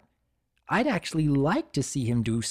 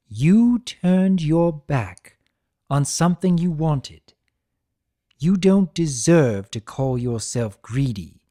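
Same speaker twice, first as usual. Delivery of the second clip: louder, firm trickster rebuke; Discord scolding; 3 semitones higher, 6 dB louder than usual. Acted. Discord confronting Tirek about his brother, firm and louder. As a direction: hammer the truth home to him.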